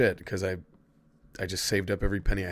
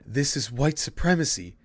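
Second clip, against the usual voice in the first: retold freak-out, pitched up; mock alarm, voice raised in pitch; freaking-out teacher; 6 semitones higher than usual. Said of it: "She started freaking out".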